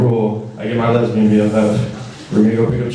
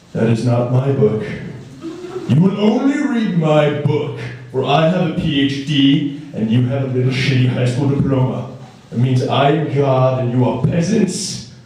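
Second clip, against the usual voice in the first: pompous professor. Retold or imitated. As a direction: look down on the freshman. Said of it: "They come over".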